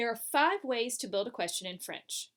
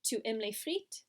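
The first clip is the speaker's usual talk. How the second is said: "Tu aimes les frites" asked, "frites" rising; voice going up. Shown as a demonstration. Teacher has students try it, question rising at the end. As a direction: model the question tune, pitch climbing on "frites". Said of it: "our voice goes up at the end".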